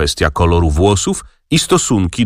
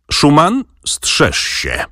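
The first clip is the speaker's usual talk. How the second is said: choked voice; 8 semitones higher, much slower than usual. A narrator's reading. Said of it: "przerwał mu Wokulski zduszonym głosem".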